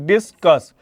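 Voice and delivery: "डिस्कस" as two separate beats, dis, cus; split into syllables. Shown as a demonstration. Teacher demonstrating to students, "डिस्कस" broken in two. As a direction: say "डिस्कस" in two distinct parts. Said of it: "आप दो बार में बोल रहे हो ना".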